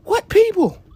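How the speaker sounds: high, loud, sharp question; imitating a confused shout; mock startled. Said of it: "quoted dialogue".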